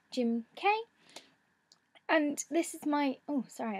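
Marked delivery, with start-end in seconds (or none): 2.1-3.8 hoarse, fading voice; losing her voice. Real, not acted. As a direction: voice going hoarse. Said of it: "I'm losing my voice".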